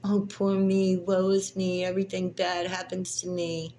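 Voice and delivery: high, loud mock whine; sneering impression of a whiny man. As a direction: mimic his self-pity with scorn. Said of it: "your whiny crying".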